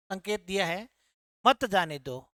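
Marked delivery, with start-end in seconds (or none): 1.5-2.3 "मत जाने दो" run together, low and falling; after the pause. Shown as a demonstration. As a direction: join मत to जाने दो. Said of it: "जो बीच में ठहराव है". (मत जाने दो एक साथ, धीमे सुर में)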